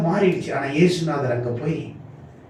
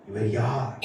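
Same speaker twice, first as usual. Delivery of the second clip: low, soft rhetorical question; hushed question; 4 semitones lower, 7 dB quieter than usual. Real, not acted. Preacher asks the congregation who He is, hushed. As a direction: ask it quietly, letting it drop. Question posed quietly, then proclaimed.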